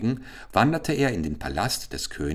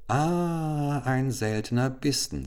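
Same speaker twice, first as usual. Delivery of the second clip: higher, delighted royal cook; 6 semitones higher, slower than usual. A narrator's reading. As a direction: savor the rare treat aloud. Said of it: "sagte er".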